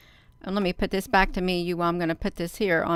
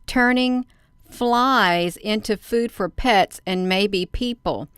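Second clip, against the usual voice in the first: reading the headline; slower than usual. Acted. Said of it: "So it says".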